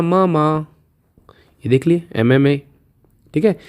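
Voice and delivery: whispered मम्मा, no voice. Shown as a demonstration. Teacher whispers the memory word to the class. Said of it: "मम्मा तो बोल सकते ना".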